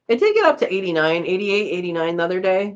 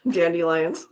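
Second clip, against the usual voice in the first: laughing; 3 semitones lower than usual. Real, not acted. Laughing at the running joke.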